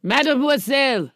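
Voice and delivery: put-on German-accented French address; comic German accent. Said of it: "In, in his German accent".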